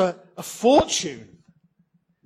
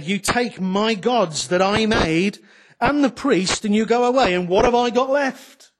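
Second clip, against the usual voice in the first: Micah's lament; 4 semitones higher, 4 dB louder than usual. Acted. Micah's complaint voiced in sermon.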